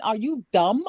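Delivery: put-on a light New York accent, teasing. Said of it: "in my New York accent".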